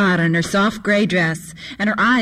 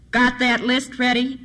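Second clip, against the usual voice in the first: higher-pitched call to someone in another room; mildly raised voice, calling a question through the house; 5 semitones higher than usual. Acted. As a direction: call it across to the kid. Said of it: "called from the kitchen".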